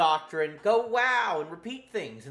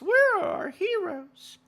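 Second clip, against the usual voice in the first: dramatic cry; 13 semitones higher, 3 dB louder than usual. Acted. Dramatic repeat after anime line.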